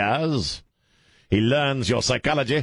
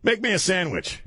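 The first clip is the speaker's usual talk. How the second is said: mock sexist line; 9 semitones higher than usual. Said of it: "can't go up to a female employee and say".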